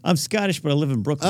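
mock a Scot gone Brooklyn; muddled Scottish-Brooklyn accent. Co-host mocks host's drifting accent, muddled Scottish-Brooklyn.

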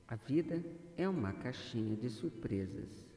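measured, deliberate meditation delivery with long pauses; guided affirmation. Acted. Guide leading a listener to see life's positive side, guided affirmation. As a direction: guide the listener phrase by phrase, letting each settle.

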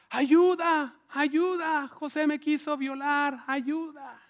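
high, drawn-out wailing calls; mock cries for help. Potifar's wife accuses José, high mock screaming. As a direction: cry out in hammed-up distress. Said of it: "empezó a gritar".

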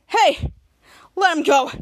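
loud, firm order; commanding call. Retold or imitated. Captain Man to Dirk holding Henry, loud command. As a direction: call out to stop him.

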